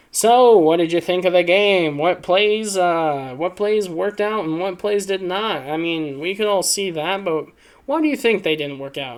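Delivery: put-on sports talk show interviewer; talk show host. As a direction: quiz the guest like a post-game host. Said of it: "it's like a post-game, uh, talk show".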